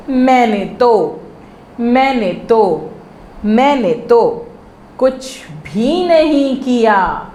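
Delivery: each chunk said three times, measured and clear; phrase-by-phrase dictation. Shown as a demonstration. Teacher to young pupils, slow repeat-after-me drill. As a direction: model each phrase slowly for the kids to repeat.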